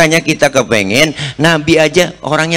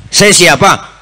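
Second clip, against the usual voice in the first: higher and louder, calling from his bed; sick man calling out; 4 semitones higher, 3 dB louder, slower than usual. Acted. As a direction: call out suspiciously to the door. (orang sakit berteriak dari dalam kamar)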